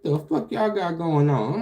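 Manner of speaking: retold shock. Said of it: "I'm like".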